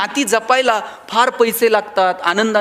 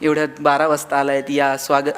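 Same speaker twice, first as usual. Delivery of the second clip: low, mocking wife's welcome at midnight; wife mocking a husband who comes home at midnight, sarcastic; 8 semitones lower than usual. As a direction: drip sarcasm as the annoyed wife. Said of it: "असं होतंय का?".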